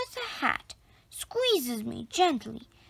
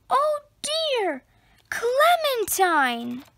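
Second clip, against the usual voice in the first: calling in distress; 9 semitones higher, slower than usual. A narrator's reading. Lost rabbit calls desperately.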